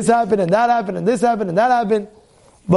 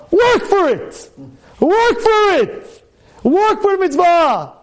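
high, slow, forceful command; stern exhortation; 8 semitones higher, slower than usual. Retold or imitated. Rabbi urging him to toil, slow forceful command. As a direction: drive each word home slowly. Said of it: "He says".

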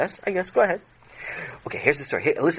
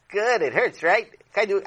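put-on mean little girl; 5 semitones higher than usual. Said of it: "a girl who was four".

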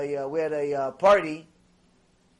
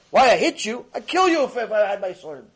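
indignant retort; 5 dB louder than usual. Acted. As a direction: snap back at the donkey. Bilam arguing with donkey.

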